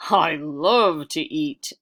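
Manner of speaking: a hint of a big hungry man; round man. Round man offering his pot, lightly voiced hearty man.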